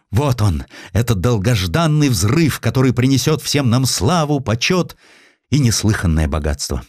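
rising, elated cry of triumph; excited exclamation. Acted. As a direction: exclaim it in delight, pitch climbing. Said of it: "в восторге выкрикнул".

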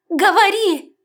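high shouted order; urgent loud demand. A narrator's reading. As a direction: make her talk now. (громкий приказ)

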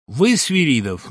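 stern challenge with a slow hard edge; hard new voice. A narrator's reading. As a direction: turn suddenly hard and probing. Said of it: "новым жёстким голосом спросил".

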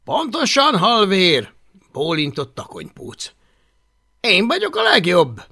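put-on loud, high, swaggering boy leader; bossy bully leader. Boastful Viking boy bossing the others, loud and high. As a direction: bark orders like the self-made chief.

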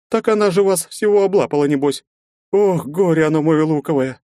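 loud, high exasperated lament; shrill fussing mother; nagging mother. Acted.

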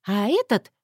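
plain reading voice

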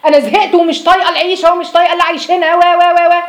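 imitating a fed-up wife exploding; mock outburst at husband. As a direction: burst out like a wife at the end of her rope. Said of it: "هتنفجري فيه".

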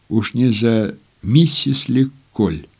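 plain reading voice

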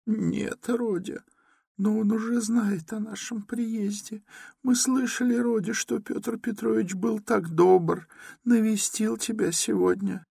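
very high, timid mother. A narrator's reading. Mother timidly tells her son Luzhin visited, very high. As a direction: ask it shyly, afraid to upset him. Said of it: "с некоторой робостью прибавила".

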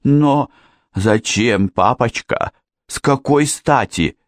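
high, pleading alarm; frightened daughter. A narrator's reading. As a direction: question father fearfully, pitch up. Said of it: "испуганно взвизгнула Джанет". (испуганно, высоким голосом)

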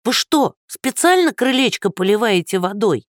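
put-on high, indignant old woman; accusing old woman. Old woman accusing Andrey after her fall, high and indignant. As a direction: accuse him of watering the porch.

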